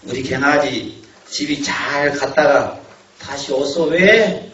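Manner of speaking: slow, fond grandmother seeing her grandson off; grandmother's farewell. Retold or imitated. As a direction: drag it out like a granny at the gate, slowly. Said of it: "이게 뭐라 그럽니까?".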